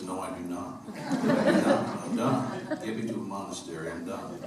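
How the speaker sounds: mock protest, breaking into laughter; laughing refusal. Telling the audience how he refused his daughter, laughing. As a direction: laugh through a hammed-up no.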